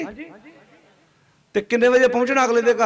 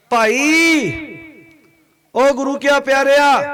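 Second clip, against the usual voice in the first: raised, higher-pitched call to the listener; 4 semitones higher, 3 dB louder, slower than usual. Real, not acted. Preacher addressing the Guru's beloved, calling out. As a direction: call out to rouse a congregation.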